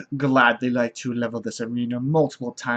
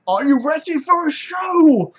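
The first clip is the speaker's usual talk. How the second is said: high, ringing showman's call; stranger's announcement; 13 semitones higher, 3 dB louder than usual. Acted. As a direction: announce the show to the arena. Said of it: "the stranger makes the announcement".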